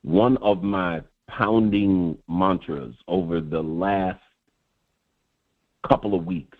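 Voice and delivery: low, measured locker-room talk; rapper-like delivery. Real, not acted. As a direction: drop the voice low and space out the phrases. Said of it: "You do sound like Ice-T".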